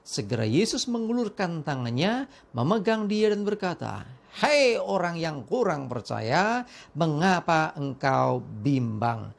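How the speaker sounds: measured Bible reading with voiced quotes; scripture reading. A narrator's reading. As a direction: read the passage to the congregation. Reads Bible passage aloud.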